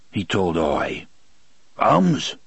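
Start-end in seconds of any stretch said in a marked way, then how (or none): 1.8-2.4 animal echo. A narrator's reading. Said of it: "Oy agreed".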